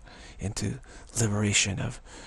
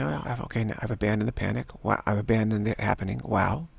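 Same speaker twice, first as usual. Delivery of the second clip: calm. Shown as a demonstration. Teacher models the calm noting practice for students. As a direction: say it like a simple calm observation. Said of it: "but doing it calmly".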